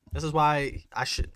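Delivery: usual speaking voice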